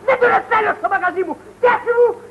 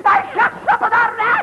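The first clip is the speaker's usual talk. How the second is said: irritated shout at the customer; 3 semitones higher than usual. Acted. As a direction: bark it out in annoyance. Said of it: "Μη φωνάζεις".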